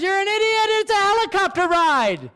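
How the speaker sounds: high put-on voice of the exasperated wife; mocking wife. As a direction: play her scolding him, lightly hammed. Wife's retort voiced by him.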